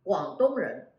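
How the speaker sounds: 广东人 said in Mandarin tones; Chinese pronunciation. Shown as a demonstration. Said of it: "people of Guangdong".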